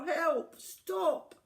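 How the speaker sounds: high, loud panicky cries for help; frightened cries. A narrator's reading. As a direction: beg him to stop, scared. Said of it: "cried the crocodile".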